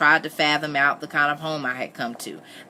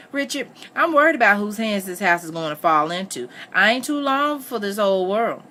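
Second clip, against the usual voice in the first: higher-pitched worried mother; 5 semitones higher than usual. Acted. Missus Moss fretting to Richard about her house, worried. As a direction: confide a worry, pitch lifting toward the end.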